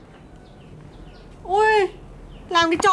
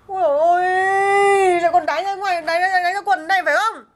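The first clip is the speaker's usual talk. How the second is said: half-sobbing shout of despair; exasperated wail. Acted. Wife finds drunk husband soiled. (than khóc ầm ĩ, kéo dài)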